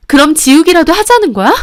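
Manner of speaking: wife yelling at husband in disbelief; shocked shout. Acted. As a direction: fire it back, appalled.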